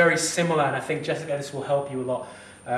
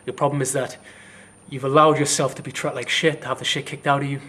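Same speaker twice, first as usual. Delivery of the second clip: louder, indignant and forceful; real angry emphasis; 5 dB louder than usual. Real, not acted. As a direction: hammer the point home in anger. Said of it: "it's really pissed me off".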